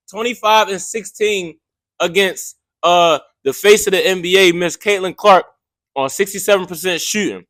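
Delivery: talking while chewing gum; words around a wad of gum. Real, not acted. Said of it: "Excuse me, y'all, for my, uh, gum chewing".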